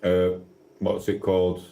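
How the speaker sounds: drowsy, nodding off mid-sentence; sleepy, losing the thread of words; half asleep. Real, not acted. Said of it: "Sorry, I'm half asleep".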